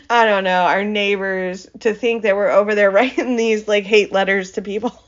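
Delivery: talking through real chuckles; laughing. Real, not acted. Podcaster picturing neighbors finding hate letters, laughing as she talks. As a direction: let laughter break into the words. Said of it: "I mean, I'm laughing".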